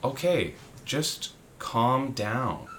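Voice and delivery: slow, soft self-soothing; self-calming. Retold or imitated. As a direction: talk yourself down slowly. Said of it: "being like".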